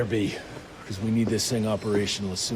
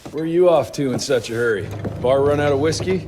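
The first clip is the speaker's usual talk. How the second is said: calling out; 3 semitones higher, 6 dB louder than usual. Acted. Calls after someone leaving.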